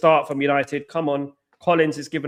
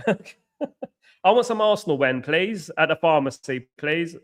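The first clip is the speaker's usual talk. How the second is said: laughing, slower mock request at the counter; mock pharmacy customer; 3 semitones higher, slower than usual. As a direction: ask the pharmacist like it's real medicine, through laughter.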